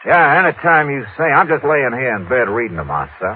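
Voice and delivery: easygoing put-on Texan voice; Texas drawl. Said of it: "using my best Texas drawl".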